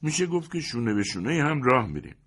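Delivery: high, lively best man voice. A narrator's reading. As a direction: chatter on cheerfully like a know-it-all.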